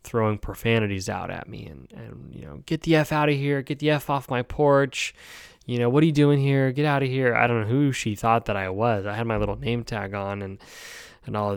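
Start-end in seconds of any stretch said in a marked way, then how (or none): 2.7-7.3 mildly heated, higher-pitched imitation; retold cursing. Woman cursing a hospice worker off her porch, retold angrily. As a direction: imitate her ordering you off, voice raised in pitch. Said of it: "she starts just immediately throwing profanities out".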